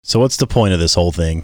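deep monster voice filter. Real, not acted. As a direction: voice changer monster effect. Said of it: "I got the monster voice on there".

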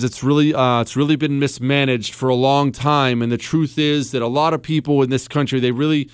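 mild mock candidate hedging; careful politician answer. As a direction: give the safe, hesitant campaign answer. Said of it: "that's what you should say".

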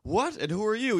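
put-on very high, loud old man's shout; old man yelling. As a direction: yell it like a deaf old man. Old man voiced in story.

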